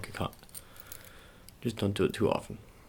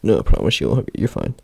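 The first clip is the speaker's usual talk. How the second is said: loud reassuring shout; 12 dB louder than usual. Acted. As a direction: yell reassurance over the strain, much louder. Reassuring a struggling lifter.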